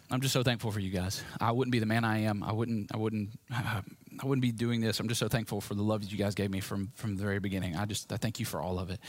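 low, soft retelling of choked-up gratitude; understated, halting thanks, as if through tears; tearful thanks. Retold or imitated. Grandson back at the house thanking his grandparents, understated tearful thanks. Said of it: "kinda through tears, choking out, just going".

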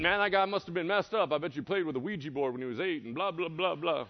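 lightly voiced smug scoffer; cocky dismissive. A hint of a smug churchgoer judging the demoniac. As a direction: brush it off smugly. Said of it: "some cocky, arrogant".

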